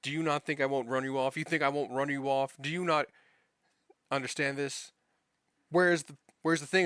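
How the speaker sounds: mock irritated old-man rant; angry old man. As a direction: imitate an irritated old boss yelling. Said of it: "saying this in his old man, angry voice, very frustrated, irritated, yelling at me".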